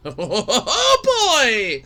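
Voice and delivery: loud, laughing excitement; excited. Real, not acted. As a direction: relish the matchup. Excited about the death battle.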